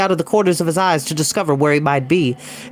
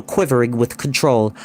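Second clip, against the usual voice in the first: ordinary delivery, nothing marked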